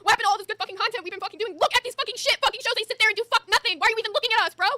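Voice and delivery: venting at the network, voice climbing; rising angry rant. Real, not acted. Cohost fed up with the network, angry rant.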